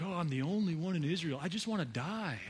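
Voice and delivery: lightly acted woe-is-me whine; mild whining. Elijah complaining after the queen's threat, whining. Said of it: "he starts whining".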